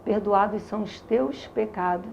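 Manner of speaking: low, soft, solemn voice; another voice speaking. Retold or imitated. God answers her through the Bible she reads aloud, low solemn voice. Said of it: "era como se uma voz, uma outra voz".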